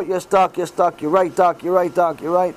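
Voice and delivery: lightly acted cowed patient; meek submission. Patient cowering before the doctor who yelled, meekly agreeing. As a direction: give in meekly, repeating it on a low, even pitch. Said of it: "Patient rolls up into a little ball".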